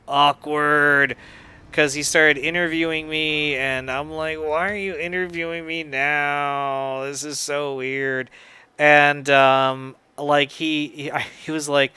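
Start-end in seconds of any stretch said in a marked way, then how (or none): 4.4-8.3 weirded out. Retold or imitated. Retold reaction to awkward interview.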